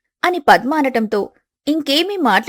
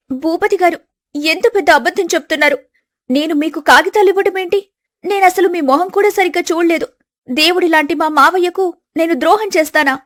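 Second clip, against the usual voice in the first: higher voice, begging to be believed; a wronged bride pleading; young wife pleading; 6 semitones higher than usual. Acted. Wife Siri begging her husband to believe her, higher pleading voice.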